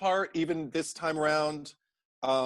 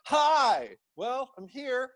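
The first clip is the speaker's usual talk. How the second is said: cheery newcomer; 10 semitones higher, 3 dB louder, much slower than usual. Retold or imitated. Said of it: "She's like".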